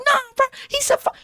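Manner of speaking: very high, indignant protest; retold outrage climbing into a squeak; getting heated. Student arguing with the art teacher, heated. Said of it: "I'm getting heated".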